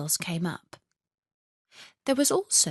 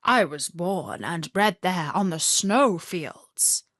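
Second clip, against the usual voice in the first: reindeer voice. Acted. Reindeer speaks.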